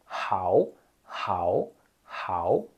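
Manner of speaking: hao with a rough h from the throat; like a Portuguese r in hao; throaty hao. Shown as a demonstration. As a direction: Mandarin hao. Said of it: "Vai ser com som de R".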